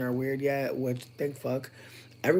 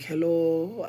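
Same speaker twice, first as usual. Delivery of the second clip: light put-on British hello; a hint of posh British; mock British accent; 4 semitones higher, 3 dB louder than usual. Retelling a prank call, mock British accent. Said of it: "using a British accent".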